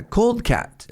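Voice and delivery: high-pitched mock Italian accent; heavy Italian accent. Italian student answering the English teacher, in a mock Italian accent. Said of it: "his heavy Italian accent".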